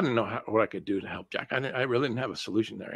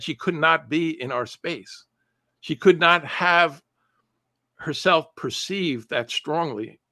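each word drawn out slowly, NOT leaned on hard; slow it right down and hit not and could; slow, deliberate emphasis to make the point land; slow emphatic stress; 4 semitones higher, slower than usual. Real, not acted. Stressing how overwhelmed she was.

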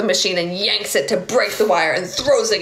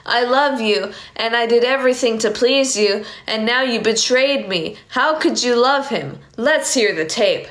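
hurt angry confrontation; 4 semitones higher, slower than usual. Acted. Johnny confronts Lisa over the taped call, hurt and angry. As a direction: lash out at her for the betrayal.

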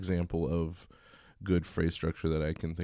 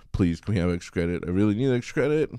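pleading student; 2 semitones higher, 6 dB louder, faster than usual. Acted. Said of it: "student pleading".

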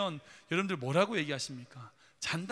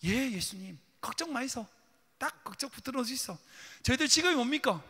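higher-pitched Busan-dialect disciples; cocky fishermen reassuring in Gyeongsang dialect; 4 semitones higher than usual. Acted. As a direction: play the confident disciple with a Busan lilt. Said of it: "경상도 사투리로, 부산 사투리로".

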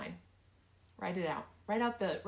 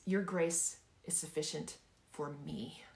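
slow build toward a drawn-out "me"; deliberate, personal "me"; stress on ME; 3 semitones lower, slower than usual. Shown as a demonstration. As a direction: take it slowly and settle the weight on "me". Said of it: "I want you to emphasize each word".

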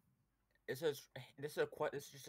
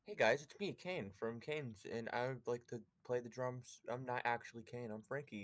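lightly voiced imitation of a friend; slow down after the greeting, lightly imitating; Kane impression. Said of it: "he can even do my voice".

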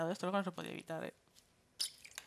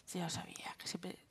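bitter whisper to himself; 10 dB quieter than usual. Real, not acted. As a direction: whisper it in resignation. Dejected muttering, whispered.

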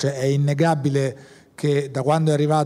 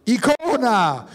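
a high, slow, stretched-out call of "Icona!"; mock triumphant yell, high and slow; retold shout; 8 semitones higher, much slower than usual. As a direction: call it out across the set, drawing it out. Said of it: "quindi potevo urlare, urlai".

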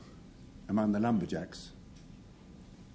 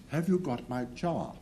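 attempted Canadian accent; 4 semitones higher than usual. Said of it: "I'm not very good on Canadian dialect or accent".

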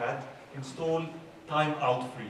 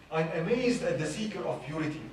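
reciting a poem. Shown as a demonstration. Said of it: "there is this poem that says".

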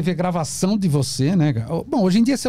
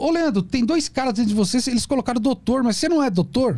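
patient; 7 semitones higher than usual. Retold or imitated. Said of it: "Um paciente falou".

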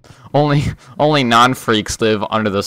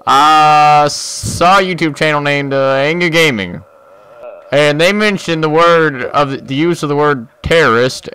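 indignant YouTuber rant; 3 semitones higher, 4 dB louder than usual. Pretend. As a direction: rant like a self-righteous YouTuber.

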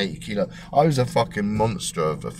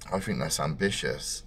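quiet doctor; 4 semitones lower, 6 dB quieter than usual. Retold or imitated. Doctor's grim verdict quoted.

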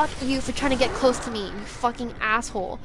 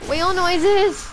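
excited yell; 6 semitones higher, 6 dB louder, slower than usual. Real, not acted. Excited cry at sudden sight.

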